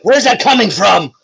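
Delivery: confused. Acted. Game master voicing a confused monster looking around, confused. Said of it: "is confused and just".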